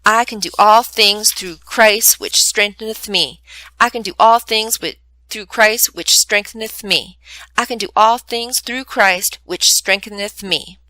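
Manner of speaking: put-on a child's careful Bible-verse recital; earnest memorized recitation with a stumble; reciting a verse. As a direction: recite it like practising for Sunday school. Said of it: "starts reciting Philippians four thirteen".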